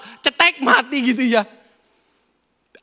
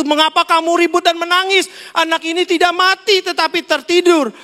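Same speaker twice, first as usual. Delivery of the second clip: Jesus speaking; 8 semitones higher than usual. Acted. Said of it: "berkata kepada orang itu".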